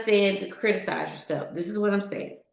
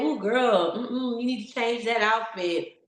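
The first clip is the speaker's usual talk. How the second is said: inner critic; 2 semitones higher than usual. Retold or imitated. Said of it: "I will say".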